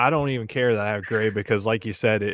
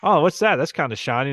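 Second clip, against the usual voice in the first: higher, louder opening as if spotting something odd; mock curious surprise; 4 semitones higher, 3 dB louder than usual. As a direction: act out a puzzled discovery. Acting out finding something in shower.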